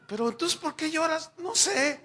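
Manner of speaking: husband questioning wife; baffled back and forth. Retold or imitated. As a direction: press her for a reason, at a loss. Quarrel with crying wife retold.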